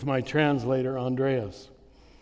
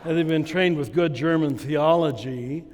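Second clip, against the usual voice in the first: laughing. Real, not acted. Mocking Lutherans' view, laughing.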